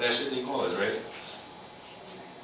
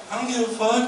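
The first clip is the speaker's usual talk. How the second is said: put-on high, loud defiant kid; mock child's defiance; bratty kid; 13 semitones higher, 3 dB louder than usual. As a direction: sass it like a brat. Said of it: "the little kid is like".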